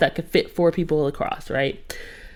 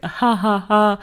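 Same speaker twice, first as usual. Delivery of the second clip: imitated laugh; 3 semitones higher, slower than usual. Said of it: "And Dre's like".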